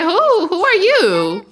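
high, loud, confrontational challenge; rude greeting. Acted. Jealous Naomi greeting a rival girl, loud and rude. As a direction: fire it off high, then stretch it rudely. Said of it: "she's gonna give a, a rude greeting".

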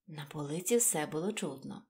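plain reading voice

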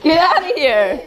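giggling through the words; laughing. Real, not acted. Laughing while being played with.

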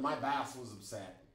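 accidental touch of Boston accent. Real, not acted. Teacher recounting a late arrival, slipping into Boston accent. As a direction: let a little Boston slip into the vowels. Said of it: "came out with a Boston accent".

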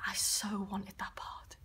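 soft, halting confession with long pauses; quietly downcast. Acted. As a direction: let it sink, hushed and heavy. Confides mum is seriously ill.

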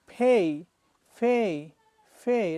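loud pay with Bangla এই ending. Shown as a demonstration. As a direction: pay said with a clear ei glide, punched loud. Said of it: "It should be pay".

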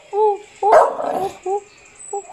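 excited. Real, not acted. Excited sounds.

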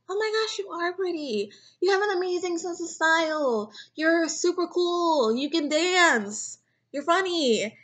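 gushing encouragement. Retold or imitated. Cheering up insecure friend.

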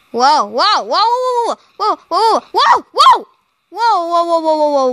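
rising, laughing whoas; alarmed whoas. Real, not acted. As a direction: rattle off panicked whoas, half laughing. Platforms crumbling under the player.

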